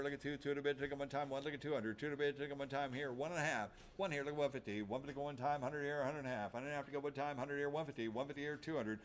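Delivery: rapid auction bid chant; auctioneer. Acted. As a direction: rattle off the bids. Auctioneer calling bids.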